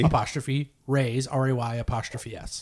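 "Ray's" then R A Y apostrophe S, letter by letter; spelling it out. Shown as a demonstration. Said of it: "Can you spell it for me?".

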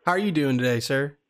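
put-on Southern prank caller; Southern accent. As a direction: talk like a folksy Southern customer. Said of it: "we're doing the Southern accent".

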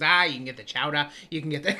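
imitating a Boston local, laughter creeping in; older lady's Boston accent. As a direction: play the Boston lady, r's dropped. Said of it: "She goes".

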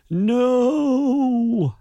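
high, loud drawn-out no; horrified cry. Acted. The creature sees his stone crumble, horrified drawn-out cry. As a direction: cry out in horror.

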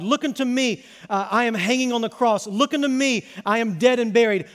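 preaching Christ's appeal. Acted. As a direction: plead with the sinner, building each Look unto me.

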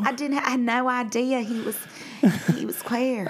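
high shocked widow voice; stunned grieving widow. Retold or imitated. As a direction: play the widow who never knew. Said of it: "Your wife, your wife would be at your funeral like".

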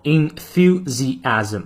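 "enthusiasm" said slowly, every syllable clear. Shown as a demonstration. Teacher slowly sounding out a long word for students. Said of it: "这个词音节比较多".

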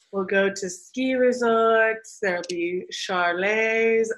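slow, careful line reading that botches "chalets"; rehearsed line with a laboured "chalets"; mispronounced chalets. Retold or imitated. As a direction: draw the line out and fumble "chalets". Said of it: "could not get the word chalets right".

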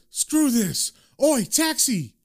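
high-pitched exasperated hail; calling out. A narrator's reading. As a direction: give up and holler for a cab, pitch leaping. Lenny gives up, hails a taxi.

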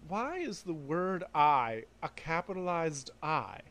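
normal talking voice

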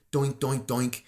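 "doink" as a dull axe bouncing; even, rhythmic mock chopping noises; imitated axe chops. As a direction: make the sound of a useless axe. Mimes axe hitting the tree.

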